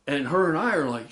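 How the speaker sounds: normal talking voice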